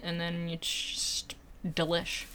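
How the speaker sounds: breathy whisper of delight. Real, not acted. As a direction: whisper it like a treat. Savoring the mulled wine.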